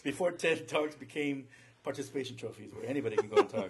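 blurted confession. Real, not acted. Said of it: "Did I say that out loud?".

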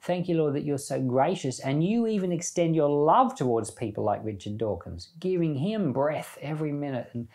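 earnest spoken prayer to the Lord. Acted. Preacher closing the chapter by thanking God, in prayer. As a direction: pray it gratefully, addressing God.

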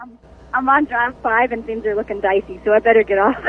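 echoing tunnel. Real, not acted. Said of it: "You sound like you're in a haunted tunnel".

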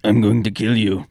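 mock Russian Drago accent; menacing Russian boxer, lightly done; a hint of a Russian villain. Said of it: "However you do a Russian accent".

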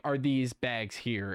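slow, robotic scanner query; computer voice. Retold or imitated. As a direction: ask like an old machine. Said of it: "That's my computer voice".

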